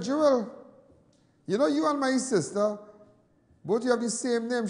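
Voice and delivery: high, loud and eager; excited. Retold or imitated. Telling Jewel she shares his sister's name, excited. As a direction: tell her the news with delight. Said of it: "I said".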